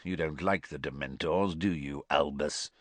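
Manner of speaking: low, soft dry teasing; a sly jab, quietly; Moody needling Dumbledore; sardonic. A narrator's reading. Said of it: "with a sardonic smile".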